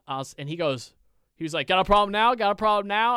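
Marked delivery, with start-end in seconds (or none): 1.7-3.2 louder, higher threatening taunt; aggressive challenge. Retold or imitated. Angry opponent in the parking lot, loud challenge. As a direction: square up and provoke.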